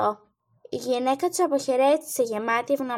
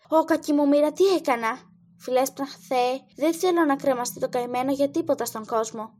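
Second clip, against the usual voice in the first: trembling cry. Acted. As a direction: beg in terror for the boy's life. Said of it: "φώναζε τρέμοντας".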